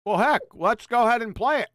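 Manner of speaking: talking with a mouthful; mouth full. Real, not acted. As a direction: chew and talk at once. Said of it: "he says his mouth full".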